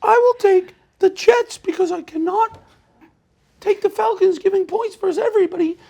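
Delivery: very high falsetto mock-British voice; Queen's English. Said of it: "That's a Queen's English".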